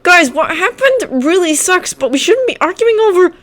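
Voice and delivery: calm them down, sad; pleading classmate. Acted.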